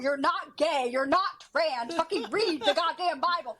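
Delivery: a mild imitation of an angry Italian grandmother; lightly voiced furious grandma scolding, not at full force; grandmother's angry rant. Granddaughter imitating her angry grandmother's scolding, mildly heated. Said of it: "grandmother gets really fucking angry".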